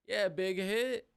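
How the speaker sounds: high drawn-out voice. Shown as a demonstration. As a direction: stretch it out in a silly high voice.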